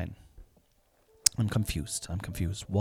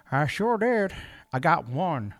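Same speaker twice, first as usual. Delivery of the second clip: slightly raised, slow put-on voice; mock proud answer; 7 semitones higher than usual. Answering his own squeaky question, lightly put-on voice. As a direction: answer with a hint of a cartoon chuckle.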